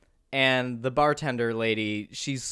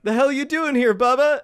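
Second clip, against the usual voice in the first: mock shouted challenge; 10 semitones higher, 5 dB louder than usual. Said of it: "they're like".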